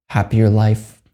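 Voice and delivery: measured meditation guide with long pauses; guided meditation. Acted. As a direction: leave long silences between short, unhurried phrases.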